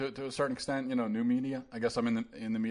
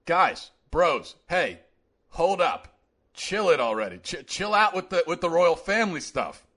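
casual bro Jefferson; 3 semitones higher than usual. Retold or imitated. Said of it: "This is what he sounded like".

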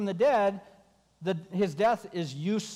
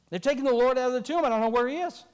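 higher, louder, fast and breathless; panicked Mary; 4 semitones higher, 3 dB louder, faster than usual. Acted. Mary runs to Peter, panicking about the tomb. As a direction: blurt it out in a panic.

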